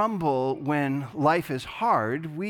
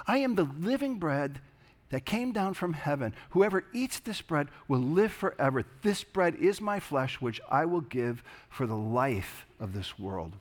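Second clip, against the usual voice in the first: measured, reverent reading of the gospel; scripture reading. Acted. Pastor reading John six to the congregation, reverent and measured. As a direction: read the passage to the congregation with weight. Reads the gospel passage aloud.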